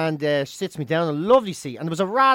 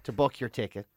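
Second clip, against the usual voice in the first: low, soft, measured airline agent imitation; American airline lady; 4 semitones lower, 4 dB quieter than usual. American airline lady offers late passenger upgrade, measured quote. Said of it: "quote from the American lady".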